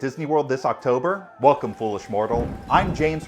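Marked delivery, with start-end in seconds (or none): 1.4-2.5 low, ominous ghostly host voice; dark lord. Acted. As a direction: greet the mortals like a sinister spirit. Spooky October intro greeting.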